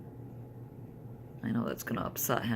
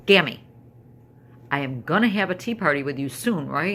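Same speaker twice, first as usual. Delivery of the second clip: granddaughter pleading; 2 semitones higher, 8 dB louder than usual. Retold or imitated. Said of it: "she looks at me and she goes".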